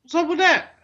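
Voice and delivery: very high mock North Carolina accent. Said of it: "a North Carolina accent right there".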